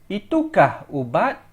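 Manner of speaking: "Itukah" said with the most weight; stress on itukah. Shown as a demonstration. Teacher showing students the emphasis on itu. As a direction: lean on "Itukah", then let "ubat" rise. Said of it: "Emphasis on itu".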